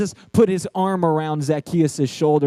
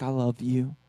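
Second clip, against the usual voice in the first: tender father; 3 semitones lower than usual. Retold or imitated. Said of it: "He was saying things like".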